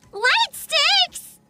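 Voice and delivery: high, excited exclaim; light up at it; delighted exclaim. Real, not acted.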